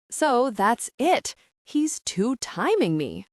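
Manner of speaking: slow, hammed-up dramatic intensity; milk it like a stage tragedy; throbbing intensity. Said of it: "her voice throbbing with intensity".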